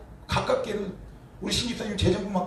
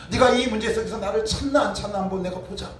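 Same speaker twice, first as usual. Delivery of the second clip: raised, insistent delivery of God's intent; emphatic quoted God; 4 semitones higher than usual. Acted. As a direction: press the point as God speaking. God's intent repeated with force. (힘주어 전하는 하나님의 말씀)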